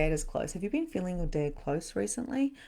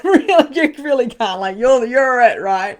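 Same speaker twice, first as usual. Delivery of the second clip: loud laughing burst, much higher; laughing loudly; 7 semitones higher, 15 dB louder than usual. Real, not acted. Reader laughing with a mum viewer, loud and high. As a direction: laugh it out big and bright. Laughing at duplicate mums joke.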